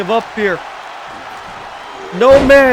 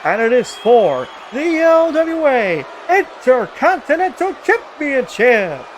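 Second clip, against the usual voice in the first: ring announcer. Acted. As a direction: announce the title bout. Formal title match introduction.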